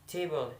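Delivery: "table" as a word-stress model, falling after the first syllable. Shown as a demonstration. Student repeating "table" to show first-syllable stress. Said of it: "stress in the first".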